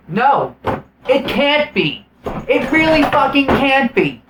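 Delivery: high, emphatic, mock-outraged denial; exasperated disbelief. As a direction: insist on it like an appalled audience. Audience's exasperated refusal to believe.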